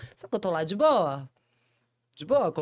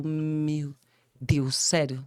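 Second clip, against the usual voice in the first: ordinary talk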